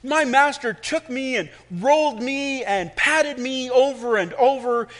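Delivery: high, loud teacup voice; teacup telling its story. Acted. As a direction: tell it as the suffering cup. Cup narrates its story.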